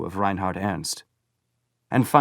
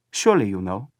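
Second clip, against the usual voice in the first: lightly voiced smiling boy; 4 dB louder than usual. A narrator's reading. Boy repeats his hint to Paul, smiling. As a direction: repeat it with a knowing smile. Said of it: "Smiling, he repeated to Paul".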